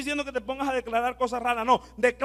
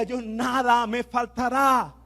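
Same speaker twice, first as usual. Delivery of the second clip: slow declaration; slower than usual. Shown as a demonstration.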